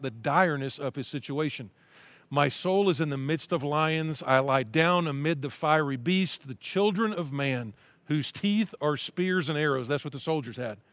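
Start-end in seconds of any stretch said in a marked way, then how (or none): 2.3-9.9 slow, earnest reading of a psalm; scripture reading. Acted. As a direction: read it as a heartfelt prayer.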